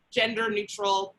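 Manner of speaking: in scare quotes. Real, not acted. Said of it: "scare quotes around that".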